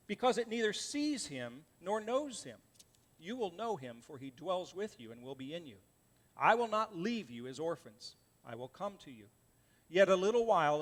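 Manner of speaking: measured, solemn Bible reading; scripture reading. Acted. Pastor reading Jesus' words to the congregation, solemn reading. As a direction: read the words of Jesus with weight. Preacher reads John 14 aloud.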